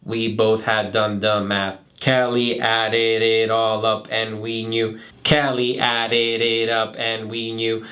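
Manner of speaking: low, slow flat robot voice. Shown as a demonstration. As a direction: hit each syllable like a robot. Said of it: "saying it like a robot".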